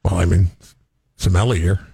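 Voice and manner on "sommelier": sommelier fumbled as "suh-MELL-ee-er"; mispronounced. Real, not acted. Co-host failing at the wine word, mispronounced suh-MELL-ee-er. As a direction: stress MELL and end sommelier in an r. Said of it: "Oh, you can't say it".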